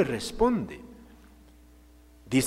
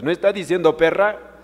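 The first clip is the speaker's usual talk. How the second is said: shocked emphasis; 5 semitones higher, 5 dB louder than usual. Acted. Preacher stresses a shocking word.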